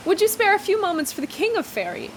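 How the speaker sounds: regal, lofty king voice; commanding Fairy King. Acted. The King reveals himself.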